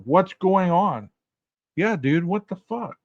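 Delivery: questioning read. Shown as a demonstration. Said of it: "she's asking the same question".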